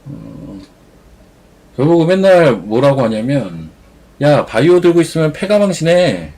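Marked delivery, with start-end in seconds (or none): 4.2-6.3 put-on loud insistent older friend voice; bossy friend. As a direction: lecture him like a know-it-all buddy. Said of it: "이래요".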